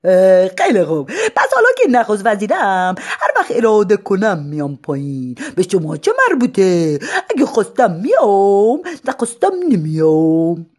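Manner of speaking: loud, cocky lunatic; defiant madman. Acted. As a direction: lord it over them. Madman defies crowd.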